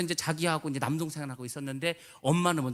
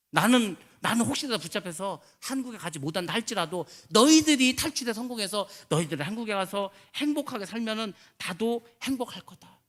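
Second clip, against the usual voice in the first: father's parting words; 4 semitones higher, 4 dB louder than usual. Retold or imitated. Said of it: "이렇게 말을 했는데".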